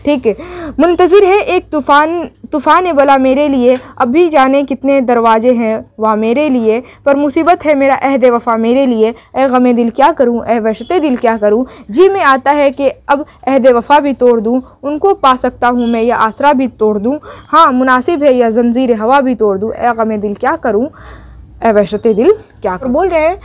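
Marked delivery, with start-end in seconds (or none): 0.8-11.7 poem recitation. Acted. Recites the next stanza. 11.9-22.9 poem recitation. Acted. Recites the last stanza.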